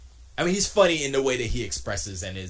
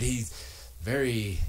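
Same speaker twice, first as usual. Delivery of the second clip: usual speaking voice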